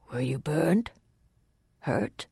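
soft, careful question; gentle concern. A narrator's reading. Waylord checking the fugitive for injuries, gentle concern. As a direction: ask quietly, without urgency.

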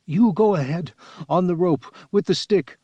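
high voice in short, halting bursts; gasped. A narrator's reading. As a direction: gasp out instructions a phrase at a time. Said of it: "he gasped".

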